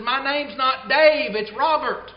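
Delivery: finally losing patience, hammed-up outburst; fed-up retort. Annoyed ballgame fan turning on the heckler, mock angry retort. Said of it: "he's fed up".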